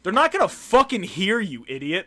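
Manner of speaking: mock exasperated inner shout. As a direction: snap it in your head at him. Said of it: "part of me went".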